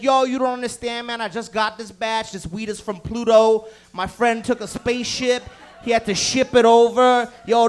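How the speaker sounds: loud, pushy hype; hyped dealer rant. Retold or imitated. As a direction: sell the space weed hard. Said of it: "he starts telling you".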